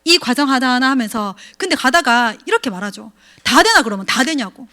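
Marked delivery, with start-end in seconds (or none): 3.4-3.8 mocking doubt. Mock doubting question from partners.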